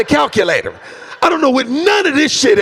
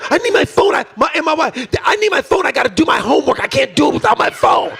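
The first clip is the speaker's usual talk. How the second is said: mocking whiny kid; 3 semitones higher than usual. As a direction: mimic a kid begging for a phone. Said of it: "that phone will send them into a tailspin".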